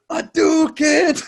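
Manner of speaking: high, loud imitated martial arts yell; mock fight cry. Cousin attacking a bully, hammed-up battle cry. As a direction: shout it like a kid's special move. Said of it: "and he went".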